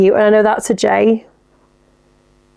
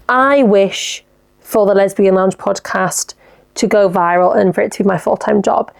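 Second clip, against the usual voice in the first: wishing slowly. Shown as a demonstration. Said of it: "instead of saying it like that".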